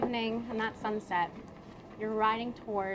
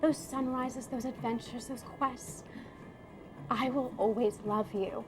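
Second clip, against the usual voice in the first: tender farewell. Acted. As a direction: lovingly say goodbye forever. Character's tender farewell speech.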